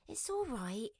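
gentle, reassuring and calm; calm the upset woman down; soothing. Acted. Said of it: "Bea soothed".

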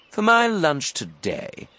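slow, high, relishing crocodile; enormous crocodile. A narrator's reading. Crocodile announcing his lunch plans, slow relish. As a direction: draw it out with hungry relish. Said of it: "he said".

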